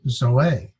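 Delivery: zoe slowly, leaning on the final ay; accented second syllable. Shown as a demonstration. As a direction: say zoe with its last vowel accented. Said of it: "and there's the accent".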